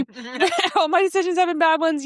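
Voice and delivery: mock despair through laughter; laughing despair. Co-host imagining her life falling apart, laughing. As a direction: laugh your way through a hopeless confession.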